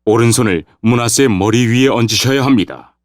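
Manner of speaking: earnest son, lightly pressing his point; son protesting respectfully. Acted. Son corrects father's misplaced hands, respectful protest.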